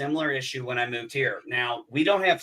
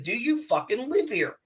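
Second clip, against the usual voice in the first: pissed-off repeat; 7 semitones higher than usual. Retold or imitated. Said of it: "I was pissed".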